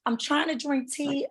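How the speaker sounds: quiet, worn-out rasp; hoarse voice. Real, not acted. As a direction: speak softly through a lost voice. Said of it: "I lost my voice".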